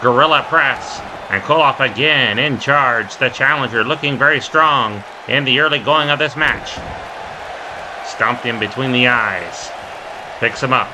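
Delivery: quick, punchy wrestling commentary; live play-by-play. Real, not acted. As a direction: call each move as it happens.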